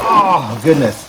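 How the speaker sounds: straining grunt while lifting; effort grunt. Real, not acted. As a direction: grunt through a heavy lift. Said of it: "Sorry about my little grunting".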